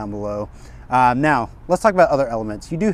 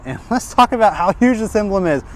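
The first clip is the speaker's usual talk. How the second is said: amused laugh; 7 semitones higher, 4 dB louder than usual. Real, not acted. Laughing at huge car emblem.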